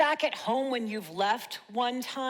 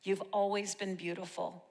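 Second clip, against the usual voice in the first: tender dedication; 3 semitones lower, 6 dB quieter than usual. Real, not acted. Poem closes addressing mother directly.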